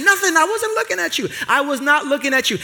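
high, panicky mock protest; scared denial. Young Rich denies staring at the stranger, high mock panic. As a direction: squeak out the denial in fright.

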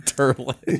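"Turlet" with er in place of oy; New York pronunciation. Pretend. Co-host amused by the word, New York pronunciation of "Turlet". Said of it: "no one says turlet".

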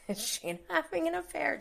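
high, fast, laughing tease. Real, not acted. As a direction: giggle through the question. Joking gossip question, then just kidding.

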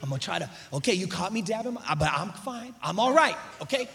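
soft, low, halting self-control; keeping it together. Acted. Woman caught dabbing tears, quietly keeping it together. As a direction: insist quietly that you're fine. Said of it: "you keeping it together".

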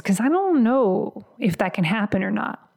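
put-on slight Canadian accent slipping in; accidental Canadian accent. Coach voicing a doubting client, light Canadian accent. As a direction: let a hint of Canadian creep in. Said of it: "I just had a Canadian accent right there".

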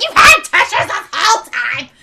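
loud, laughing disbelief, high and bright; exasperated outburst. Retold or imitated. To mom pulling out a tissue, a loud laughing outburst. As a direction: blurt it out half laughing. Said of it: "I was like".

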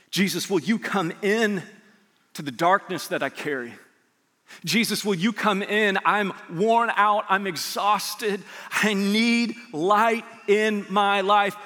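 slow, pleading prayer voice; heartfelt prayer. Acted. Pastor modelling a weary believer's prayer, slow and pleading. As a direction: pray it slowly, as if weary.

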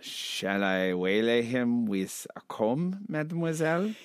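put-on German-accented character, rising at the end. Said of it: "I'll do the German guy now".

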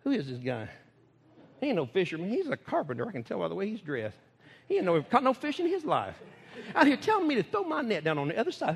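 mock-doubtful fishermen grumbling, then giving in; skeptical fishermen. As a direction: scoff at the carpenter, then cave. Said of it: "And they're like".

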